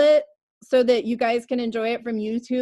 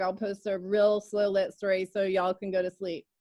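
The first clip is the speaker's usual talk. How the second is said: Texas accent; 3 semitones lower, 4 dB quieter than usual. Real, not acted. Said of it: "Texas came out there".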